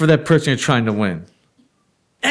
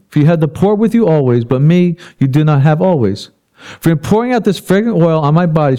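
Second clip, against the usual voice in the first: loud, projected Bible reading from the pulpit; scripture reading; 4 dB louder than usual. A narrator's reading. Preacher reads Jesus defending the woman to the congregation, loud scripture reading. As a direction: read the verses out forcefully to the room.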